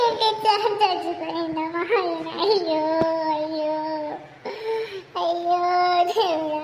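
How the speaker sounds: hammed-up grief with a laugh; mock wailing. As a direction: wail over the news, half laughing. Wife learns husband died.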